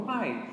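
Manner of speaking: Y said as "uai", like the Minas Gerais word; Mineiro "uai". Shown as a demonstration. Teacher recalling how a mineiro talks, Y as "uai". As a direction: say Y as "wai". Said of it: "lembra de como o mineiro fala".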